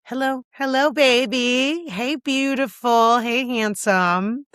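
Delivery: slow, sweet hello to yourself in the mirror; mirror pep talk. Shown as a demonstration. Talking to herself in the mirror, slow and affectionate. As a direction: coo at your reflection, drawing out each word. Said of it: "take a look in the mirror and say".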